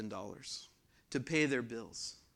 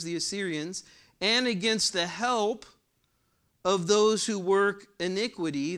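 louder, higher scripture-reading voice; emphatic preaching; 5 semitones higher, 6 dB louder than usual. Real, not acted. Preacher reading Isaiah's warning to congregation, emphatic. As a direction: read the verse out firmly and emphatically. Reads and expounds scripture forcefully.

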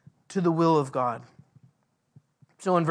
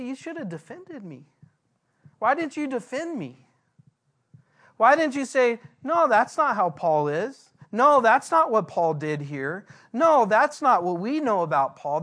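higher voice of Paul hurt, pleading why they stayed silent; hurt rebuke; 4 semitones higher than usual. Retold or imitated. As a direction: let Paul's hurt rise into an appeal.

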